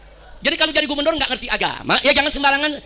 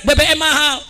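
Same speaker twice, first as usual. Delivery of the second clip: raised-pitch mock cry of protest; imitated protest cry; 4 semitones higher, 4 dB louder than usual. Fathers complaining to officials about fuel prices, imitated cry. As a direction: call it out as protesters would, half-shouted. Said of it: "Mereka teriak".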